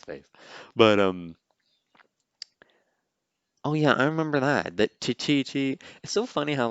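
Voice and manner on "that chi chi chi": imitated droid chirp. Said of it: "these little sounds I remember so well".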